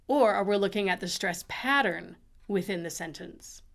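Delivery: are leaned on in the question; are we with are stressed. Shown as a demonstration. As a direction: hit the word are. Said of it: "Even if I look at the".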